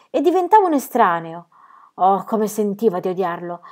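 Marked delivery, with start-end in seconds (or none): none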